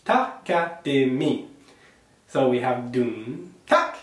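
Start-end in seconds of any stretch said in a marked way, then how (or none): 0.0-1.5 each of the four syllables spelled out slowly; slow takadimi. Shown as a demonstration. Teacher slows takadimi so pupils hear four syllables. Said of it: "four syllables". 3.7-4.0 tak shot up very high. Shown as a demonstration. Teacher recites the pattern with a very high tak. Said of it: "Tak is high-pitched".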